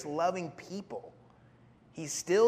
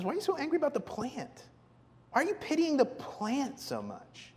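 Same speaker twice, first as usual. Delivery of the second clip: high, questioning, without extra force; gentle counselor God; 9 semitones higher than usual. Acted. God gently questioning Jonah about the plant, patient. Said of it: "The Lord is a gentle and patient counselor".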